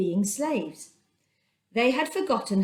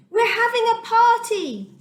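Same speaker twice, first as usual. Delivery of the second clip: much higher, loud joyful shout; 12 semitones higher, 6 dB louder than usual. A narrator's reading. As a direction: burst out with the happy news. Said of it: "he shouted".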